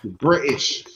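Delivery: "British" said with a crisp British accent. Shown as a demonstration. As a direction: stress "British" the proper British way. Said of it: "get it in there".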